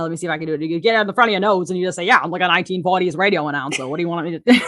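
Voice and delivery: fast, announcer voice pushed out the front of the nose; rattling off an old-time radio intro; 1940s radio announcer. Shown as a demonstration. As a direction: play a transatlantic 1940s radio announcer, quick and punchy. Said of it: "I would just be like".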